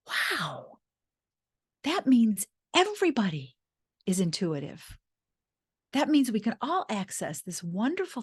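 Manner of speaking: lively, rising wonder; excited. Retold or imitated. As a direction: marvel at a big discovery. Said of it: "I was also excited".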